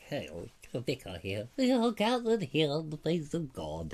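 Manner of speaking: lightly voiced solemn vicar; mock vicar. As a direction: intone it like a stuffy preacher.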